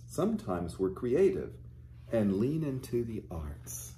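gentle storybook reading voice; teacher reading a storybook aloud to children. Acted. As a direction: read the picture book to the little ones. Reads a picture book to children.

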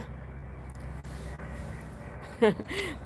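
soft, breathy laugh breaking out; suppressed laughter. Real, not acted. Streamer remembering viewer's reply, starting to laugh. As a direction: try to hold in giggles. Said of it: "พี่ขำที่น้องตอบมา".

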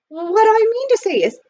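high, loud, nervous restart; flustered. A narrator's reading. Butler trying again to propose, flustered. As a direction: push the words out high and flustered.

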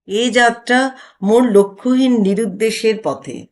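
lightly lofty, teasing recitation; mock-poetic joking. Husband teasing his wife to deflect, mock-grand. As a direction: dodge her with playful grandeur. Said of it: "পরিহাসের পথ ধরে".

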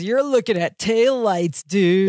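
lightly imitated California surfer accent; a hint of California dude accent. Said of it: "he hops back into that Cousin Bartok, California accent".

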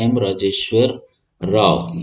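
slow, deliberate spelling-out of the name एम राजेश्वर राव; teacher slowing down on a name to memorise; name said slowly for memory. Shown as a demonstration. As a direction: linger on each part of एम राजेश्वर राव so students remember it. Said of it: "ये आपको नाम याद रखना है".

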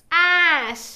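"యాష్" stretched out, falling pitch; pronunciation demo. Shown as a demonstration. Teacher modelling the blended word, "యాష్" long and falling. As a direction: draw out the vowel in "యాష్".

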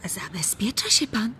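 teasing soft whisper; a sly breathy aside. Acted. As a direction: hush it like a secret.

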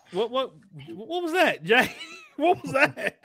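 chipmunk-pitched voice, sped up; high squeaky chipmunk sound; helium voice. Real, not acted. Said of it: "why do you sound like a chipmunk on my end".

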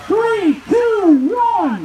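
drawn-out countdown call; starter's countdown. Real, not acted. Starter counting woodchoppers in, drawn-out countdown. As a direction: call each number out long and evenly.

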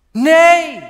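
piercing high scream of a desperate mother; mother's scream. Acted. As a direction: cry out as a mother losing her child. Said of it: "riep ze".

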